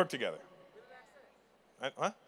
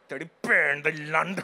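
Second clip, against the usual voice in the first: Punjabi insult; 4 dB louder than usual. Retold or imitated. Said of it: "the insults aren't random".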